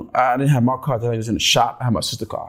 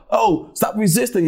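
higher-pitched imitated officer's order; mock police yell; 6 semitones higher than usual. Quoting police on news videos, mild mock yell. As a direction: mimic a cop yelling, only half-raised. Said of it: "they yell out".

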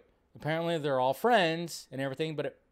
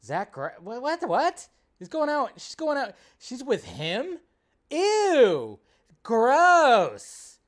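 high, squealing fake outrage; mock disgust; 5 semitones higher, 6 dB louder, slower than usual. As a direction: ape the judging gossips, grossed out. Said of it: "those same people go".

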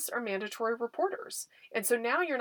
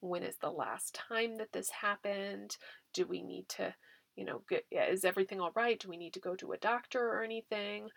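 gentle questions; 4 dB quieter than usual. Shown as a demonstration. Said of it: "get some basic information".

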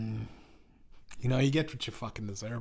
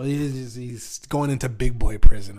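loud emphasis; 14 dB louder than usual. Real, not acted. Emphatic joke.

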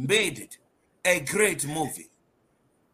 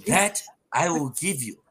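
put-on African accent. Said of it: "In my African accent".

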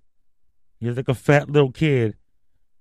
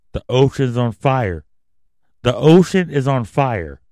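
louder, alarmed, hammering it home; loud alarmed rant; 6 dB louder than usual. Real, not acted. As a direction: raise the alarm. Alarmed rant about the ocean.

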